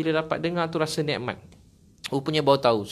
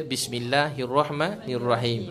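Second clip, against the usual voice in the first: slow, measured Quranic recitation; slower than usual. Shown as a demonstration. Ustaz recites the opening verse to the congregation, slowly and reverently. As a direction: draw out each syllable reverently.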